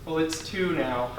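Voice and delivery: simmer quietly over the wait; impatient customer. Acted. Waiting customer complains about late appointment, quiet seething.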